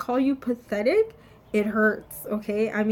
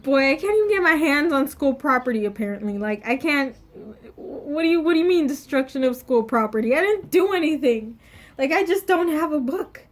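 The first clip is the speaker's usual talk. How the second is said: mildly exasperated, louder pleading; indignant protest; 3 semitones higher, 4 dB louder than usual. Retold or imitated. Student protesting to the yelling teacher, indignant. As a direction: protest your innocence with some force.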